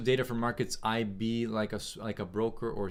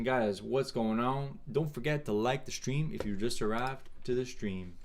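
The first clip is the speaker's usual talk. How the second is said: put-on hillbilly accent; 2 semitones higher than usual. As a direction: greet viewers in a mock hillbilly twang. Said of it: "I'm doing a hillbilly accent".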